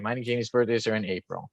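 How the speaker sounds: words lost to a dropping call. Real, not acted. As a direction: voice cutting out over a bad line. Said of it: "my mic cut out".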